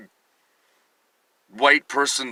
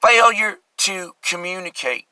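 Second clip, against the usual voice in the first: lightly voiced slow warden; a slower, milder echo of the captain; hint of the warden, drawn out; Cool Hand Luke quote; 4 semitones higher, slower than usual. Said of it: "Cool Hand Luke".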